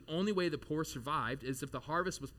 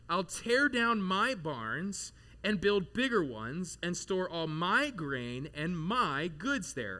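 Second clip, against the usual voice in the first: slow, smug rich man; much slower than usual. Acted. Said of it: "He thought to himself".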